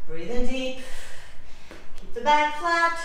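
coaching shout. Real, not acted. Instructor urging effort.

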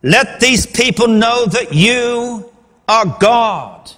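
slow, high, spaced-out appeal; earnest prayer. Shown as a demonstration. Elijah's second prayer, all about God, earnest prayer. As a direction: stretch it out and pause before the last words. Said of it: "His second prayer".

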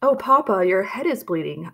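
put-on a girl shrieking at the sight of blood; crying out in alarm. A narrator's reading. Daughter sees her wounded father, crying out in alarm. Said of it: "I heard Puss cry out".

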